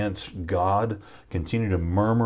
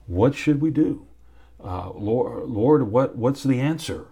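pleading cry to the Lord; 4 semitones higher than usual. Pretend. Preacher voicing a believer begging the Lord for answers, pleading. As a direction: call out to God in desperation.

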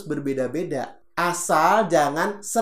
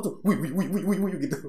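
mock racing thoughts; 4 semitones higher, much faster than usual. Shown as a demonstration. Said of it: "semuanya lari-larian".

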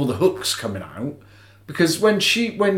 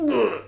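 higher-pitched wincing groan; disgusted "ugh"; 6 semitones higher, 4 dB quieter than usual. Retold or imitated. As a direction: wince out a squeamish ugh. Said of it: "makes me go".

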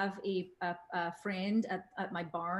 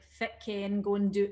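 lightly demonstrated Aberdeen dialect; Aberdeenshire brogue. Shown as a demonstration. Quoting Aberdeenshire locals to the host, light local brogue. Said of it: "they say things like".

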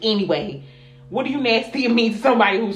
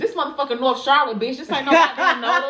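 raised-pitch, exasperated retold rant; cussing out; 4 semitones higher than usual. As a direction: re-enact chewing out a stranger. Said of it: "cussed him the fuck out".

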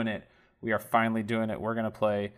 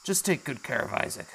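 louder, leaning on too; firm Kyle; 6 semitones higher, 4 dB louder than usual. Acted. Kyle refusing Dora's help, firm then pleading. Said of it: "He goes".

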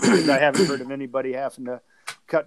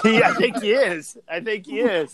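laughing; 7 semitones higher, 5 dB louder than usual. Real, not acted. Laughing at the glitchy call.

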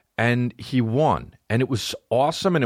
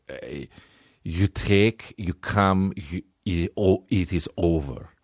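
blunt, lightly put-on Russian accent; matter-of-fact Russian grunt; 2 semitones lower, much slower than usual. The Russian guy shrugs off the Italian, lightly Russian accent. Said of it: "the Russian guy's like".

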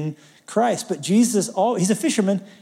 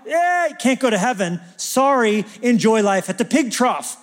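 mock dismissal; 4 semitones higher than usual. Mock verdict on the idolater.

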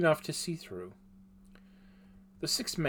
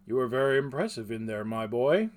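rough grunting blacksmith; 6 dB louder than usual. Acted. Smith praises boy.

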